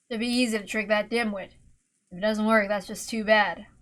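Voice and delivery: hint of a cynical schemer; lightly voiced scheming man. Rudolph scheming alone.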